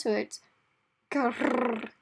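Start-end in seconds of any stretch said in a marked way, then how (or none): 1.1-1.9 growl without rolled r. Shown as a demonstration. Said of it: "if they can't roll their R's".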